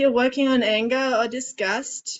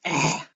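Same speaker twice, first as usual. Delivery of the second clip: low disgusted groan; 6 semitones lower than usual. Shown as a demonstration. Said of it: "you might make a disgusted face".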